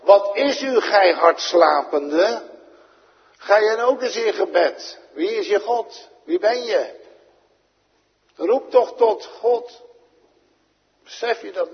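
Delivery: loud, high, urgent captain's shout; the ship's captain yelling at sleeping Jona; captain shaking him awake. Retold or imitated. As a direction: rouse the sleeping Jona, demanding. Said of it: "die moet hem echt wakker schudden".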